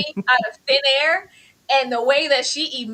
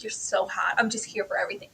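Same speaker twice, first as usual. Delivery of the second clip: soft, low mock seduction; mock sultry flirt; 5 semitones lower, 9 dB quieter, faster than usual. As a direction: purr it like a smitten contestant. Mocking a flirty contestant.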